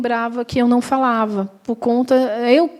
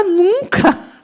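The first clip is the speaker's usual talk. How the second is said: emphatic denial; 10 semitones higher than usual. Retold or imitated. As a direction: wave the worry away with a bright laugh in the voice.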